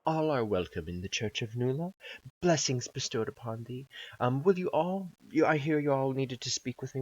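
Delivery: lightly voiced gracious priestess. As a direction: welcome them like a gentle cleric. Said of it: "she greets you and says".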